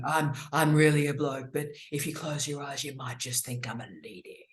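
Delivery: low, soft mock posh radio announcer, fading to a whisper; hammed-up deep-voiced female DJ going breathy; proper radio voice. Imitating an eighties FM host to a colleague, low and hushed. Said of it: "Speaking very properly".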